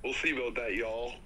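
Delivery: light southern twang on "y'all"; southern accent. Pretend. Player answers a friend's challenge, lightly put-on southern accent. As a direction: lean a little southern into "y'all". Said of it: "put the most southern accent on it".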